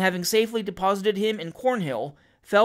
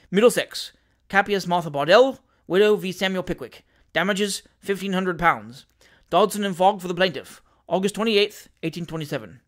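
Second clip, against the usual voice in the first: formal, itemised legal recital; measured clerkly read-out, dropping at the end; reading out a writ; 4 dB louder than usual. A narrator's reading. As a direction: read each entry off officiously. Lawyer reads out a writ entry.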